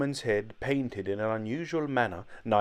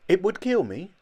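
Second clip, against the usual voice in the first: higher and louder, disbelieving kill rising; shocked question; 9 semitones higher, 7 dB louder than usual. A narrator's reading. Old Jolly hearing the operation would kill him, aghast. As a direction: gasp it back in horror.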